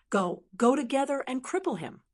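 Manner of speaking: rally the gang to attack; roaring order. Acted. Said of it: "He suddenly roared".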